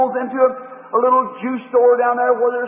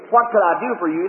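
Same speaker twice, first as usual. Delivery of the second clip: restrained, polite shopkeeper; polite salesman; 2 semitones lower than usual. Acted. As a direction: offer help like a well-mannered salesman. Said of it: "as a polite salesman or gentleman".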